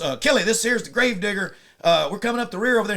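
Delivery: loud, high retold field report; radio call-out. Gravedigger radioing Kelly from the rear, calling out urgently.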